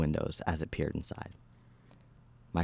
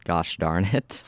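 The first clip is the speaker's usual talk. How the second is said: hissed; 2 semitones higher, 4 dB louder, much slower than usual. Acted. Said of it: "I hissed".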